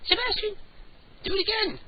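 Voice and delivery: very high sing-song pet voice. Real, not acted. Host coaxing his cat to meow, high baby talk. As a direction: coo up high at the kitty.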